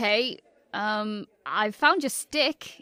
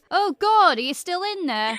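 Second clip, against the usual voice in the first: mum's high, loud yell; acted shout; 8 semitones higher, 6 dB louder than usual. Mum shouting through the bathroom door, high mock yell. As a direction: shout it like an exasperated mum, then ease off. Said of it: "bangs on the bathroom door and shouts".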